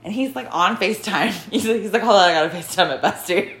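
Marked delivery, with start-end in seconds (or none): 2.0-3.5 laughing mock quote. Kid quoted on the bus.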